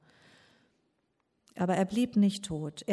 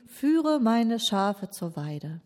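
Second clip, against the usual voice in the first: very slow, deliberate charge; Jesus entrusts Simon slowly with his task; slow commission; much slower than usual. Acted. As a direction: give the task word by word. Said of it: "Sondern er sagt zu ihm".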